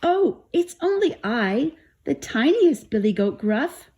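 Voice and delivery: tiny, high-pitched little goat; very small voice. A narrator's reading. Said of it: "in his very small voice".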